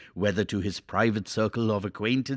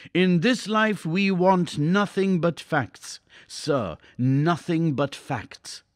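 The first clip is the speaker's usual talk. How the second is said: slow, higher, drawn-out decree; dictatorial pronouncement; 6 semitones higher, slower than usual. A narrator's reading. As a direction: lay down the law, word by word. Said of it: "voice, which was inflexible, dry, and dictatorial".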